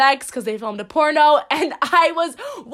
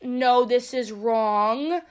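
slow and firm, self-righteous; slow, firm refusal; slower than usual. Retold or imitated. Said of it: "to be like".

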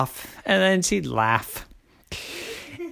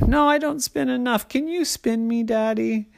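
put-on insistent little girl; 7 semitones higher than usual. A narrator's reading. Child pleads in story.

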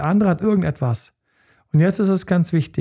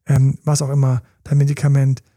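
ordinary delivery

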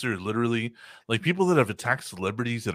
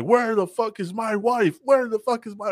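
furious husband yelling; 10 semitones higher than usual. Retold or imitated. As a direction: bellow it like a crazed husband with a gun. Husband with shotgun demanding wife.

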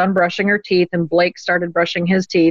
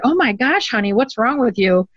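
alarmed; 4 semitones higher than usual. Retold or imitated. Mother alarmed at scared daughter.

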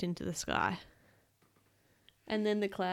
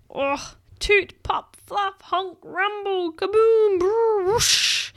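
high, loud, drawn-out noise words; comic storytime explosion; explosive sound effects; 10 semitones higher, 7 dB louder, much slower than usual. A narrator's reading. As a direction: build to a huge booming finish. Performs the giant fart's noises.

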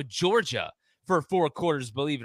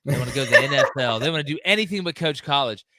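mock alarmed whine, louder at the start; mocking panic; 4 dB louder than usual. Host mocking fans' college-coach panic, hammed-up alarm. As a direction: parody the hand-wringing fans, hammed-up. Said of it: "everybody's like".

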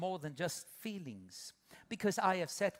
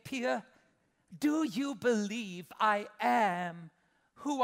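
prayer to God; 3 semitones higher, 3 dB louder than usual. Retold or imitated. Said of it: "I can go like".

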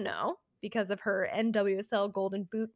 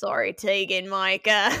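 loud mock Australian accent; 2 semitones lower, 6 dB louder than usual. Host apologizing to the keeper in a put-on Australian accent. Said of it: "say it in an Australian accent".

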